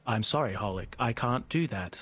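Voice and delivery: a hint of a computer speaking; robot voice. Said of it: "Pretend, pretend to speak like robot".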